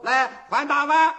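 shouted order. Acted. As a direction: bark for the big bowls. Official orders bigger bowls.

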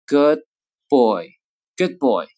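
put-on good boy with the d held before b; good boy with unreleased d; lost plosive. Shown as a demonstration. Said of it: "前面爆破音呢就要失去爆破".

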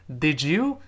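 "did you" blended as "didju", rising; "di-jew" as one smooth unit; linked did you. Shown as a demonstration. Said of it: "连读之后一定会变成".

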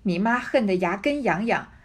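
put-on old woman berating her niece, stress on 根; scolding. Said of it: "骂道". (大声骂“你妈恨得牙根痒痒”，重读“根”)

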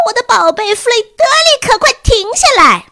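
high, loud, panicked shriek; shrieking mother. A narrator's reading. A mother in the seventh row screams at her son to stop. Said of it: "跳起来大声尖叫".

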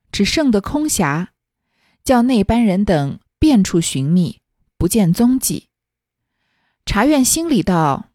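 put-on slow, measured read-aloud of old fiction; classical story reading. A narrator's reading. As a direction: read the old tale out slowly, phrase by phrase. Reads the original story text. (缓慢而郑重地朗读古典小说原文)

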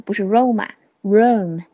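"Roma" then "Rome" said as one syllable, no final a; pronunciation contrast. Shown as a demonstration. Teacher corrects students saying "Roma" instead of "Rome". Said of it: "罗马是Rome啊".

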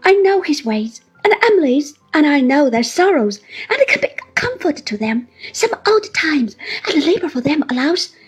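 put-on high, loud, crying old widow's plea; tearful pleading. A narrator's reading. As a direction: beg to be taken along, sobbing into it. Mrs Gummidge's long tearful plea.

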